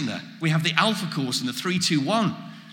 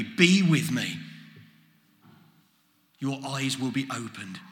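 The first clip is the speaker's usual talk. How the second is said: gentle invitation; 4 semitones lower than usual. Acted. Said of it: "Jesus is saying".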